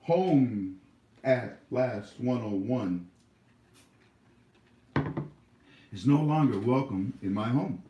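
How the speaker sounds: formal decree. Real, not acted. Banning a commenter formally.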